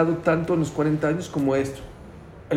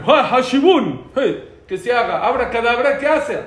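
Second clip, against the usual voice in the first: mock magic spell; 5 semitones higher than usual. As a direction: cast it like a stage magician, joking.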